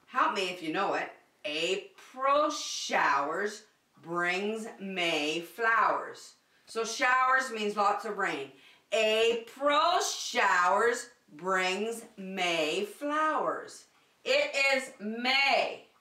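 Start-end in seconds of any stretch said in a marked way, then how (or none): 1.4-6.3 slow, sing-song recitation; poem recital. Shown as a demonstration. Teacher recites the April poem to children, slow sing-song. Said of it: "we did a poem that went like this". 8.9-13.8 slow, sing-song recitation; poem recital. Shown as a demonstration. Teacher recites the April poem to children, slow sing-song. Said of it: "we did a poem that went like this".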